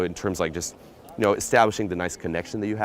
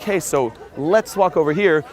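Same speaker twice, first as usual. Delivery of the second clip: high, slow mock suggestion; permission-seeking; 7 semitones higher, 4 dB louder, slower than usual. Shown as a demonstration. Pickup coach showing what not to say, permission-seeking. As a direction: imitate asking where you should simply act. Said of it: "You don't seek permission".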